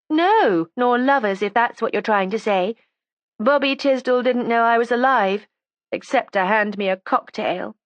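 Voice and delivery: put-on high, defiant young woman; resentful young woman. A narrator's reading. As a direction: voice her as a sulky, stubborn girl. Judy's voice again.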